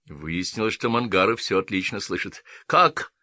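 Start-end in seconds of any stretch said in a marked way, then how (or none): 2.7-3.1 sharp high startled cry; exclaiming. A narrator's reading. The lieutenant hearing Dasha returns, startled. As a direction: blurt it in shock. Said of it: "воскликнул он".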